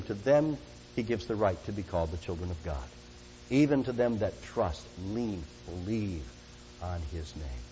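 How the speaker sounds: soft fading. Acted. Closing verse fading softly.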